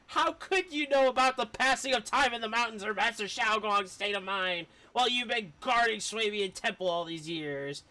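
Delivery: a hint of playful bickering voices; lightly voiced bickering characters. Streamer reading two characters arguing, lightly acted. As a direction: read both sides like a squabble. Reads character dialogue aloud.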